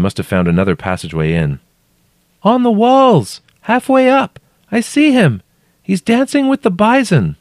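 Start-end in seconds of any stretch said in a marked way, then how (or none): 2.4-7.4 very high voice calling in phrases. A narrator's reading. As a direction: call up a strange sighting from below. Trapped woman calling up vision.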